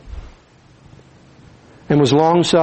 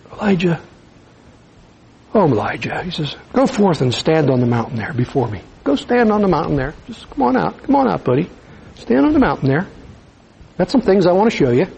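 gentle voice of God. Acted. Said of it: "Gentle, loving God".

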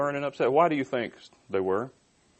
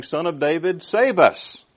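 crowd's cry; 5 semitones higher, 5 dB louder, slower than usual. Acted. Crowd crying out to Jesus.

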